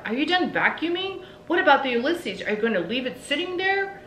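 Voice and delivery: husband shouting to his wife about the vacuum; calling out. A narrator's reading. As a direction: bellow the questions across the yard. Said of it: "Mister Tickham called out".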